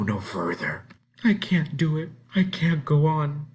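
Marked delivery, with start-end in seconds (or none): 1.2-3.5 higher, pleading and scared; frightened girl. Acted. Frightened ten-year-old pleading she can't go on.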